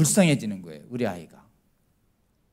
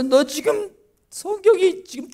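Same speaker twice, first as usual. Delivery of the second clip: scolding parent; 6 dB louder than usual. Retold or imitated.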